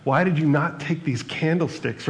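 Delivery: a priest calling out kindly, the name stretched out; gentle priest. Retold or imitated. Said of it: "Then he goes".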